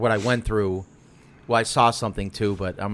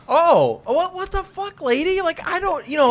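flustered; 4 dB louder than usual. Retold or imitated. Retold own panicked reaction.

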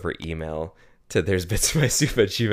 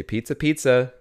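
slogan voice; 5 semitones higher than usual. Retold or imitated. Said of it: "they would say".

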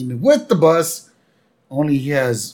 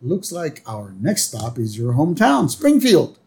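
quoting a singer; 4 semitones higher than usual. Retold or imitated. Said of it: "So then Corrigan goes".

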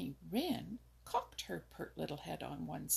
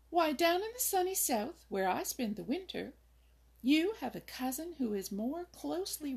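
much higher, louder, laughing bird voice; teasing wren; 7 semitones higher, 4 dB louder than usual. A narrator's reading. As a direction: she finds him hilarious.

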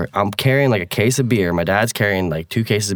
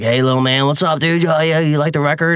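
a higher, chummy celebrity voice; friendly pop star; 5 semitones higher than usual. Retold or imitated. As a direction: play the breezy star greeting a fan. A pop star greeting kid, retold.

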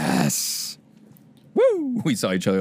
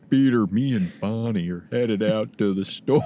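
Bader impression; 3 semitones lower than usual. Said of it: "Do some, uh, Bader".

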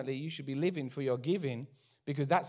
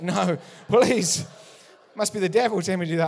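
loud, fast mock pleading, hammed up; a comic plea, louder and rushed; panicked protest; 4 semitones higher, 10 dB louder than usual. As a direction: beg your way out of it, half-joking. Mock panicked refusal to God.

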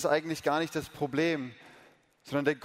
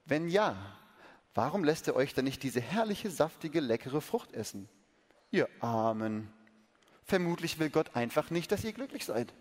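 lightly voiced serpent; 3 semitones lower than usual. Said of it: "fragte die Schlange".

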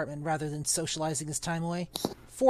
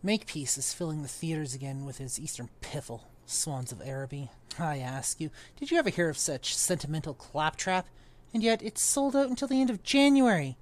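put-on pompous old magician; 2 semitones lower than usual. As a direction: sniff at it like a stuffy old master. Reads Underwood's lines in character.

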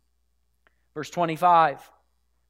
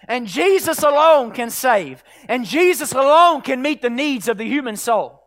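forceful, raised preacher's exhortation; insistent preaching; 5 semitones higher, 9 dB louder than usual. Real, not acted. Preacher calling the church to herald Jesus, insistent preaching. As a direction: drive each sentence home with conviction.

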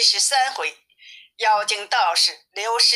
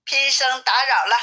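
higher-pitched polite call; raised-voice greeting; 4 semitones higher than usual. Acted. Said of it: "高声地问". (提高嗓音问候)

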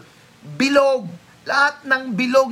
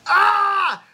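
high ringing cry "Ah!"; shout of victory; 9 semitones higher, 5 dB louder than usual. Shown as a demonstration. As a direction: cry out like an army in triumph. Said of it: "To the Israelites". (sigaw ng mga Israelita)

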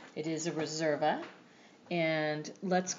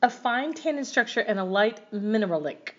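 lightly voiced foreign reviewer; reading review aloud; 4 semitones higher than usual. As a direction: read it like a non-native reviewer. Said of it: "I'm not sure English is their first language".

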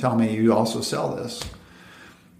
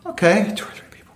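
higher, fast retold reply; eager salesman; 9 semitones higher, faster than usual. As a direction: chirp it back quickly. His own reply to caller.

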